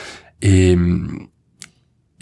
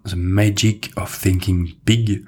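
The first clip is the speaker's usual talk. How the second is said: English accent. Real, not acted. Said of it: "Désolé pour mon accent anglais".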